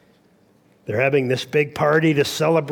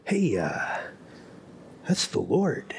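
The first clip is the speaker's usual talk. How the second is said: hushed, voiced stage whisper to a friend; John whispering; 7 dB quieter than usual. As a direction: softly pass on the news, imitating a whisper. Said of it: "John is whispering to Peter".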